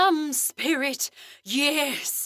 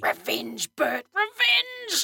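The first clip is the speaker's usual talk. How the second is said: ghostly cry of revenge; 4 semitones higher than usual. Acted. Ghost speaks through medium.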